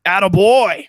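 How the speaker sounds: high, loud imitated cheer; mock congratulation. Retelling Steve Coogan congratulating the widower, in a mock cheer. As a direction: whoop it like hearty praise for a pal. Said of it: "And he's like".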